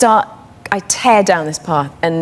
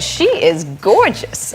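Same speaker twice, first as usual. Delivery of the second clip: nurse; slower than usual. Retold or imitated. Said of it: "she fully transforms into the people involved".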